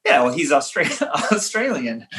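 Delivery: laughing through the word; a sheepish laugh breaking in. Real, not acted. Retelling his embarrassing audition answer.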